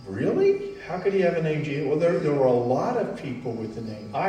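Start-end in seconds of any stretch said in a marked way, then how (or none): 0.1-1.9 mild mock disbelief. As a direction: voice a puzzled, incredulous reaction. Voicing the congregation's surprised thought.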